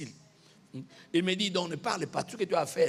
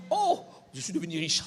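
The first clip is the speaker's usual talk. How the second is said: mock joy; 4 semitones lower than usual. Mocks a believer who got rich.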